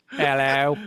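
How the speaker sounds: badly faked Australian greeting; Aussie accent. Shown as a demonstration. Co-host weighing accents for fake Biff, put-on Australian accent. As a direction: try out a mock Aussie accent. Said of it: "I could go Aussie".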